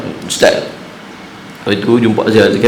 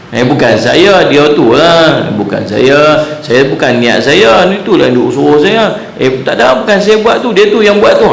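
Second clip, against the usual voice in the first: mock pleading excuses; 4 semitones higher than usual. Sinner making excuses, acted.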